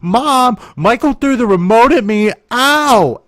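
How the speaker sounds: high whiny kid voice with a fake ow; whiny tattletale. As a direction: play the fake-hurt little sister tattling. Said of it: "this little witch jumps up and goes downstairs and says".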